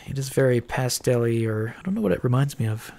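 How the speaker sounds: talking through a blocked nose; stuffed-up nasal voice; stuffy nose. Real, not acted. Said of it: "I'm a little stuffed up still".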